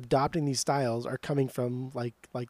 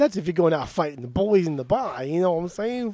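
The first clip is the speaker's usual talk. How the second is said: put-on light Boston accent; 4 dB louder than usual. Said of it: "that's my Boston accent right here".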